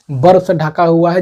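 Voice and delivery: teacher drilling the answer word by word; slow emphatic repeat. Shown as a demonstration. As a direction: say "बर्फ से ढका हुआ है" slowly for the class, with weight on बर्फ. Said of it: "क्या है?".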